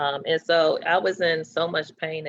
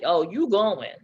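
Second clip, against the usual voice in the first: eager friend; 2 semitones higher, 5 dB louder than usual. Retold or imitated. Friend pushing her to radiation.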